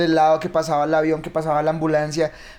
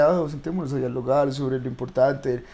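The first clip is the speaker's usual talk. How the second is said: mock serious; 5 semitones lower, 4 dB quieter, slower than usual. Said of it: "como una conversación seria de".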